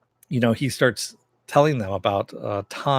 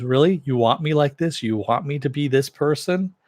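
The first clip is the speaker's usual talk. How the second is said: higher-pitched incredulous questioning, mildly acted; retold incredulity; 4 semitones higher, 3 dB louder than usual. He answers her demand to change, incredulous. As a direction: throw the questions back in mock disbelief.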